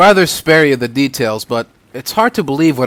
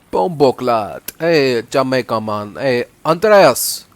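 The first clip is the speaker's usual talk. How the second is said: put-on Jamaican accent; slower than usual. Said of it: "try to stick to one accent".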